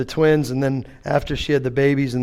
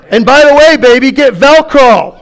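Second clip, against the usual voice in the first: emphatic aside; 11 semitones higher, 13 dB louder than usual. Acted. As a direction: lean in and drive it home.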